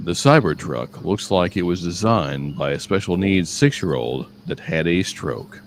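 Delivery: lightly voiced friend reading a message; Andrew impersonation. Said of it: "do my Andrew impersonation".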